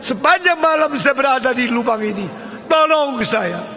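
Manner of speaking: high, loud begging yell from the pit; pleading shout. Retold or imitated. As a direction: plead to be heard above. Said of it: "Lalu dia mulai berteriak".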